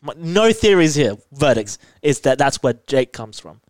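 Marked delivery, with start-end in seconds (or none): 0.0-1.8 much higher, louder outburst; playful exclamation. Real, not acted. Podcaster asked by co-host for a verdict, high playful exclamation. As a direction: exclaim it high and loud, making a show of it.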